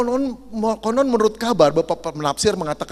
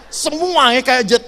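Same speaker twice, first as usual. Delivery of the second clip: normal talking voice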